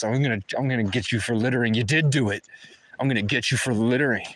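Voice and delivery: quick mock cartoonish threat, a touch fast; lightly voiced cartoon villain cop taunting; imitating a crazy cartoon cop. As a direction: ham up a cartoony bully cop. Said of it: "talking like this".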